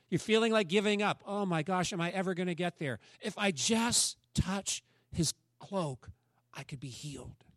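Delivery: a worn-out woman who won't give up; weary, pleading inner voice. Retold or imitated. Woman in the crowd, pushing toward Jesus, weary and pleading.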